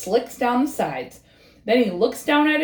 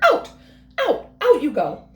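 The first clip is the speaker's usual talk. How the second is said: higher, firm shooing; throwing him out; 7 semitones higher, 3 dB louder than usual. Acted. Birds chase Frog out of their house, firm and shooing. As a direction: shoo him out the door.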